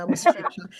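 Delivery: laughing partway through the phrase; a laugh slips out mid-sentence at your own jab; amused laugh breaking into the words. Real, not acted. Laughs mid-line at own joke.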